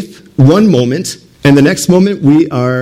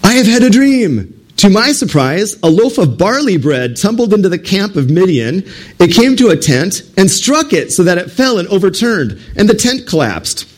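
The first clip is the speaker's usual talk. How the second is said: higher, awed voice telling the dream; Midianite soldier; 5 semitones higher than usual. Acted. Midianite soldier tells his companion his dream, higher and wondering. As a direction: voice a wide-eyed soldier recounting a dream. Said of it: "He said, now these are two Midianites".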